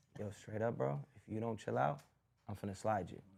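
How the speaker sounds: calm menace, very low, quiet and hushed. Showing a scarier guy who stays cool: imitating a calm, scary threat. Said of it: "It's way more scary when the cat comes up to you".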